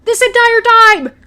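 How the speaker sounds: high, loud and slow, stretching every word; hammed-up declaration, almost shouting it; exasperated love confession. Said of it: "that she's like".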